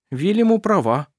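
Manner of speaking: ordinary delivery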